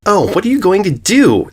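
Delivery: high scornful filly voice; taunting yell. Acted. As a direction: throw it back at her. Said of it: "Diamond yelled back".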